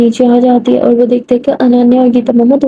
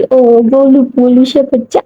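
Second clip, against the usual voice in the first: put-on teasing baby talk. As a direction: coo it like baby talk to tease a friend.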